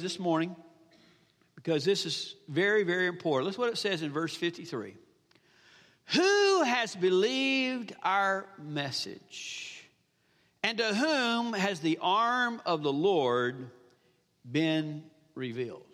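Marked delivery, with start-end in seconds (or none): 6.1-15.8 very slow, drawn-out Bible reading; scripture reading. Acted. Preacher reading the key verse to the congregation, slow scripture reading. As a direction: stretch the words out solemnly, with long pauses.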